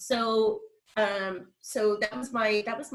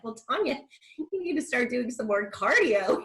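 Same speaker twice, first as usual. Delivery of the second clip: 1 imitating nurse; 5 semitones higher than usual. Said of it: "And he's like".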